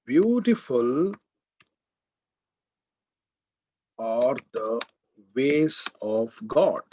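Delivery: Beautiful stretched slowly with a rise; stress on beautiful. Shown as a demonstration. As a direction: linger on Beautiful, then slow down. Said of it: "beautiful adjective is highlighted".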